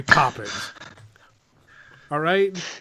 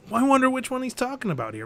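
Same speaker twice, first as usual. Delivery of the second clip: musing to self; 9 semitones higher than usual. Retold or imitated. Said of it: "I'm like".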